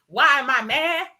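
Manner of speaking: exasperated outburst; real anger. Real, not acted. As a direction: demand it back at them, offended. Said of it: "telling you why I'm mad".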